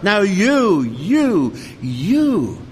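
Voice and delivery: loud, high preacher's call, pointing at each listener. Acted. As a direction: call out to each one in turn.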